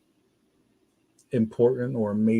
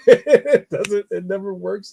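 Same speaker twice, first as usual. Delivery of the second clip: high, loud laugh into the words; 7 semitones higher, 7 dB louder, slower than usual. Real, not acted. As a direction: burst out laughing, then speak. Laughs at own hope for gifts.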